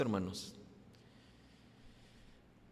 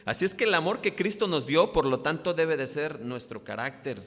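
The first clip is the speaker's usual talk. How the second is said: loud, high, fervent declaration; preaching at full force; 3 semitones higher, 6 dB louder than usual. Acted. Preacher driving home the lesson to the congregation, loud and fervent. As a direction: pour it out like a preacher at the peak.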